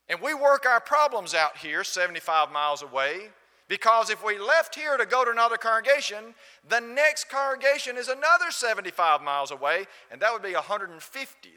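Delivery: high, loud, insistent quote; loud retold argument. Gentleman explaining why they work out problems, loud retold argument. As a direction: imitate a man hammering his point.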